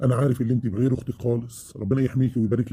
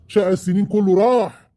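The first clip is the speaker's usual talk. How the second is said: anguished cry; 6 semitones higher, 5 dB louder than usual. Acted. Husband lamenting his losses.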